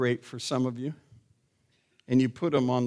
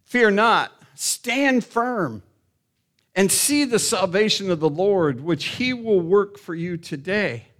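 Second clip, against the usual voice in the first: raised, ringing voice of a leader; bold proclamation; 5 semitones higher, 4 dB louder than usual. Acted. Moses standing up amid the crowd, boldly proclaiming. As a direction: declare it loudly over a frightened crowd. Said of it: "Moses, the man of faith, stood up in the middle of the crowd".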